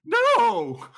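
shouted no. Real, not acted. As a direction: cry out in denial. Denying rigged dice.

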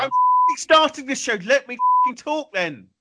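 high, loud, angry protest; exasperated outburst. Real, not acted. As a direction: lose patience with the interrupter, voice pitched right up. Host snaps at interrupting co-host.

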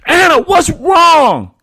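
very high, loud, slow plea; begging shout. A narrator's reading. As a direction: beg her again to answer. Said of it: "Daddy begged again".

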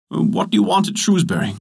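put-on high, surprised old cobbler. A narrator's reading. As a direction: echo it back like a startled cobbler. Cobbler questions the giant.

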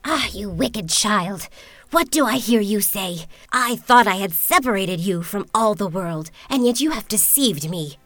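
put-on loud, furious old witch scolding; angry witch. Witch scolding Rapunzel for deceiving her, loud and furious. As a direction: tear into the wicked child. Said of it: "In her anger".

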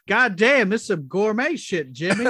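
loud, high Jules exclamation; Sam Jackson quote. Retold or imitated. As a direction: belt it out like Jules. Quoting Sam Jackson line.

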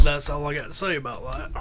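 lightly voiced Southern film-character imitation; Forrest Gump. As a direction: echo the catchphrase in character. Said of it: "Why don't you do Forrest Gump".

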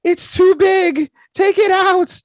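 high, breathless mock moaning. Retelling the anime scene, hammed-up high moaning. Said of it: "They're like".

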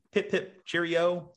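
British "pip pip cheerio"; mock British accent. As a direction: chirp it like a cartoon Englishman. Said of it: "I can't really do a British accent".

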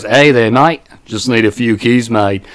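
lightly imitated Australian customer; casual request in an Australian accent. Customer asks store worker for keys, Australian accent. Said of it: "Remember the Australian guy".

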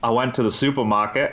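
half-hearted Australian imitation; attempted Australian accent. Shown as a demonstration. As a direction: repeat it in a tentative Aussie accent. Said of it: "give us your Australian accent".

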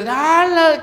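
loud, high yell of sudden outrage; retold angry shout. Diner yells at the sister over her salsa, mock shout. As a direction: cry out high in imitation of a man yelling. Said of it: "le empieza a gritar el judío".

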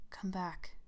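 soft tender whisper. Acted. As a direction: coax gently, almost whispered. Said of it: "he said tenderly".

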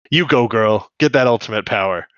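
loud, punchy hype; mock cheering on. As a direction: cheer her on playfully. Cheering on the posing character.

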